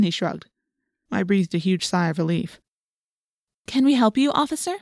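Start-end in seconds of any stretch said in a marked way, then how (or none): 3.7-4.8 high-pitched, polite helpful question; best responsible voice. A narrator's reading. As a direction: sound like a responsible kid addressing an officer. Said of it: "in her best responsible voice".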